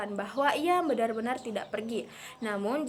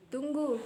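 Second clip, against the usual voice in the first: "Tunggu" with its vowels stretched long; drawn-out word; 4 semitones higher than usual. Shown as a demonstration. Teacher demonstrates a stretched "Tunggu" to the class, lengthened. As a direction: hold "Tunggu" long to make them wait. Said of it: "dengan bunyi yang dipanjangkan".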